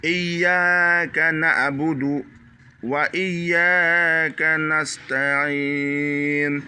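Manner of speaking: Iyyaka na'budu held slow; slow Quran recitation. Shown as a demonstration. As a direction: recite very drawn out. Recites verse slowly.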